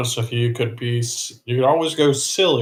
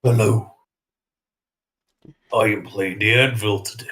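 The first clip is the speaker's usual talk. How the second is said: Jigsaw impression; 2 semitones lower than usual. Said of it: "my best impression of Jigsaw".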